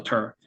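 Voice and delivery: "tur" kept low through the R. Shown as a demonstration. Teacher repeating for learners, "tur" with a low R. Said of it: "이렇게 낮음으로 해주셔야 됩니다".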